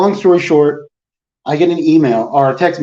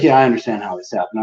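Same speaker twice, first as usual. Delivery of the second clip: lower, softer "Yeah, I understand how this happened"; sheepish admission; 4 semitones lower, 3 dB quieter, faster than usual. Retold or imitated. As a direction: mumble the admission, a bit caught out. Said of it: "he's like".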